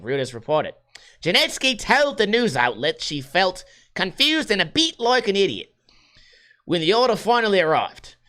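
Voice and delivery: news story in a put-on Australian accent. Podcaster reads toilet paper story to chat, mock Australian accent. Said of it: "love my Australian accent".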